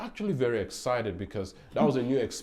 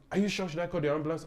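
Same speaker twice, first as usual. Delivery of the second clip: higher-pitched imitation of a worried stranger; retold shaken concern; 6 semitones higher, much faster than usual. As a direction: quote the anxious driver, pitched up. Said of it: "She was shaking".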